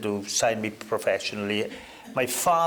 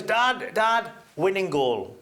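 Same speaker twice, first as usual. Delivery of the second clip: calling out; 7 semitones higher, slower than usual. Retold or imitated. Kids calling to whistling father.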